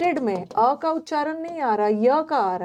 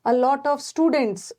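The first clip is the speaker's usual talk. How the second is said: slow example; much slower than usual. Shown as a demonstration.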